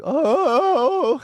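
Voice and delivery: high, loud mock howl of a lovesick dog. Imitating his dog howling for the female upstairs, high and loud. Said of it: "my poor dog was like".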